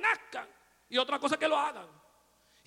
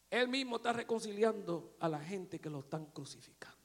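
soft whispered awe; 6 semitones lower, 10 dB quieter than usual. Real, not acted. Preacher whispering in awe about Jesus forgiving his killers. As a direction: breathe it quietly to the church.

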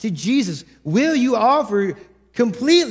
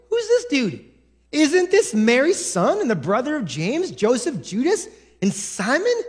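dismissive, raised-pitch sneer; scoffing crowd; 4 semitones higher than usual. Retold or imitated. Preacher voicing hometown skeptics, mildly scoffing. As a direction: brush him off like a nosy neighbor. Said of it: "Here's what the people say".

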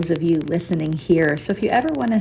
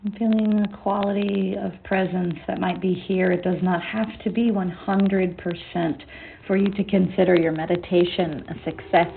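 guided meditation. Acted. Leads a meditation session.

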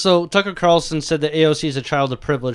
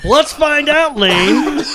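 high, loud, laughing while talking; giggling through the words; 10 semitones higher, 5 dB louder, much slower than usual. Real, not acted. Giggle fit on the show.

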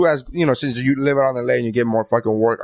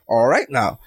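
Al's catchphrase; 4 semitones lower, slower than usual. Retold or imitated. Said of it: "see him say this when he goes".

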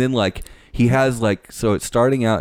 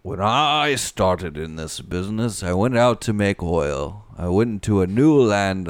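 lightly voiced oilman telling his own story; measured first-person oilman impression; a hint of an old-time oil baron's oratory; Daniel Plainview voice. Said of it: "can you do his voice again?".

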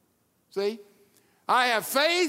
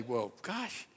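mock critic; 5 semitones lower, 4 dB quieter than usual. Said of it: "some people criticize Peter and say".

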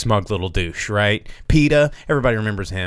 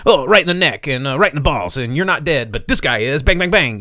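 louder and higher, cocky running commentary on each hit; cocky action hero; 5 semitones higher, 4 dB louder than usual. Retold or imitated. Action hero gleefully narrating kills to SWAT team, cocky and loud. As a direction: rattle off the kills like it's easy, ending on a punchy bang bang bang.

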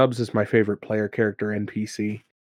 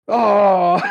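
burst of laughter; 9 semitones higher than usual. Real, not acted. Players find Bomar, teller cracks up.

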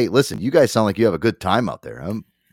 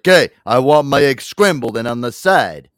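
demanding customer; 3 semitones higher, 6 dB louder than usual. Retold or imitated. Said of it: "It's like".

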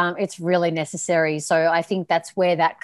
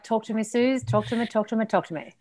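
mock seductive purr, quieter each time; playful imitation of a sexy voice; imitating a sexy voice; 2 semitones higher, 4 dB quieter than usual. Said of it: "Your voice is like".

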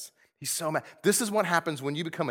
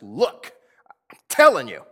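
whispered warning; whispered urgency; 12 dB louder than usual. Retold or imitated. Pastor voices Paul warning his readers, whispered. Voicing Paul's urgent aside.

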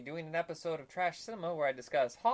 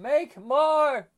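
high loud mock yell; loud hammed-up demand; shouted demand; 11 semitones higher, 9 dB louder than usual. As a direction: bark it at the makers. Demanding more consoles.

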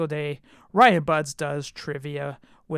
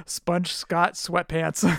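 laughing; slower than usual. Real, not acted. Cracking up at the pun.

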